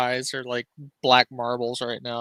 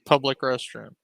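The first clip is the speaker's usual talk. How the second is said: laughing punchline; 4 dB louder, slower than usual. Pretend. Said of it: "Can you imagine telling your lawyers".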